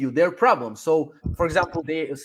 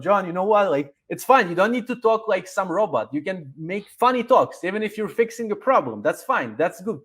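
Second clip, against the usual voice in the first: casual own voice. Shown as a demonstration. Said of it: "this is my voice of talking".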